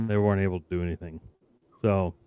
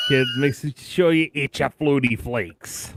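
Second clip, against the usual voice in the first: Boston accent; 3 semitones higher, slower than usual. Shown as a demonstration. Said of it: "I need to work on my Boston accent".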